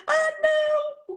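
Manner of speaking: high squealing no, half laughing; excited squeal. Retold or imitated. Coach sees the toilet video, squeals high with laughter. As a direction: squeal it out with joy. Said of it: "e começou a chorar".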